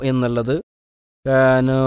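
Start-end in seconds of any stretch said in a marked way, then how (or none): 1.2-1.8 കാനു with the waw sliding toward a long alif sound. Shown as a demonstration. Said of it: "അലിഫിനോട് ... വാവ് ഉച്ചരിക്കും".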